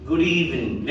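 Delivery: جود إيفنينج with the d run into إيفنينج; correct linked form. Shown as a demonstration. Teacher gives the right form: linked model. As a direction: link جود into إيفنينج smoothly. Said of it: "لا".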